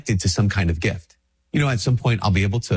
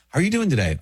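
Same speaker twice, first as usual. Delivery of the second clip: pitched much higher, a chirpy passer-by asking; mock friendly greeting; 8 semitones higher, faster than usual. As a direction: play the cheery acquaintance who asks.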